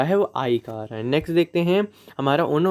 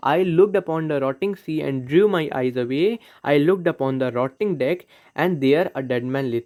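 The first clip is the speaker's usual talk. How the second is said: slow, measured recitation of the lines; poem reading; much slower than usual. Acted. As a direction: read it out like a poem, slowly. Reads poem example slowly.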